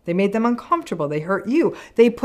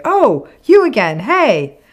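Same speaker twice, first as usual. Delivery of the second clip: rude greeting; 4 semitones higher, 5 dB louder, slower than usual. Retold or imitated. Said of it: "they even literally say rude stuff".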